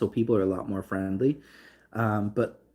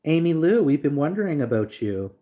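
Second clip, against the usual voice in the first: louder, higher sing-song call; 4 semitones higher, 3 dB louder than usual. Acted. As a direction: hail her across the room, playful. Calling out a viewer by name.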